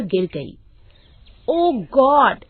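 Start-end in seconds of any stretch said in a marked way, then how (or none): 1.5-2.4 higher-pitched, indignant scolding; exasperated accusation. A narrator's reading. Shopper to her fallen sister-in-law, exasperated.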